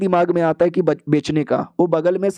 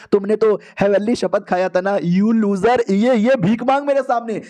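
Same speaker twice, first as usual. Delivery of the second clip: put-on higher-pitched, scornful girl's voice; imperious, mocking demands; haughty taunting; 5 semitones higher than usual. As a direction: taunt him like you hold all the power. Girl taunts hero, demands he beg.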